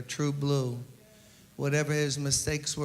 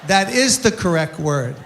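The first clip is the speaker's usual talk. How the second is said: mock insistent lecture; 3 semitones higher, 10 dB louder than usual. Joe defends the word loudly.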